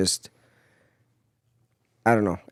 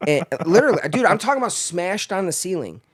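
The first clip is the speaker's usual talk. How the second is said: laughing through the words, pitch jumping higher; 7 semitones higher than usual. Real, not acted. Telling buddy the boot camp story, laughing. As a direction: crack up while describing the scene.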